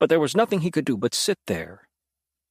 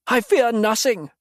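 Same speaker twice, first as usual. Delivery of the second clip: loud, high defiant snarl; the captive demon denying his fear, snarling; 10 semitones higher, 5 dB louder than usual. A narrator's reading. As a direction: bite off each word in rage. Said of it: "Mattis snarled".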